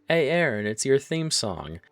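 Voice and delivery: loud, high mocking shout-out; teasing call-out. Coworker calling out to Aaron over the music, loud teasing. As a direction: yell it across the aisle to rib him.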